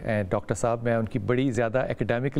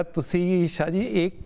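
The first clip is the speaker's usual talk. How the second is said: doctor's advice; 4 semitones higher, much slower than usual. Retold or imitated. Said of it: "doctor साहब ने कहा".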